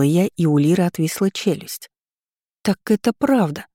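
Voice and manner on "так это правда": a bright, surprised exclamation with the voice lifted on «правда»; exclaiming in surprise. A narrator's reading. Lira catching Florence out, surprised exclamation. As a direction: blurt it out as sudden news. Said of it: "воскликнула она".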